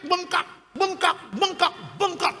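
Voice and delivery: slow, high-pitched astonished repeat; retold shock. Pastor relives seeing his swollen face, astonished and slow. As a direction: stretch each word out in disbelief. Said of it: "Waduh, saya kaget".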